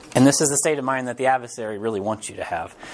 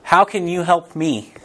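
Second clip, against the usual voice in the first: humble plea; slower than usual. Retold or imitated. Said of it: "you cry out to God".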